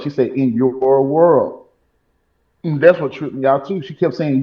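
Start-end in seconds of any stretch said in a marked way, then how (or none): 0.3-1.6 slow echo. Retold or imitated. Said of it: "how she said it?".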